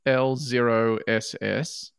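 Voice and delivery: slow, careful letter by letter; spelling it out. Real, not acted. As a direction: read each character out deliberately. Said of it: "I'll spell them all out for you".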